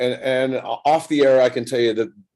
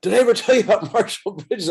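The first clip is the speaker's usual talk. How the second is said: eager recall; 9 semitones higher than usual. Retold or imitated. Kubek eagerly recalls another teammate.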